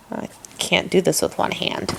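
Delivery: quiet mutter to self; muttered aside. Real, not acted. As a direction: say it under your breath, half whispered. Struggling with shirt, aside.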